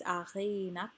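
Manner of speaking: "achinak" with a long, stressed "chi"; stressed, lengthened CHI. Shown as a demonstration. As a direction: lean on and stretch the middle syllable of "achinak". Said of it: "Chi is also lengthened".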